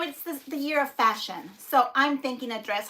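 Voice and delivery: ordinary talk, nothing marked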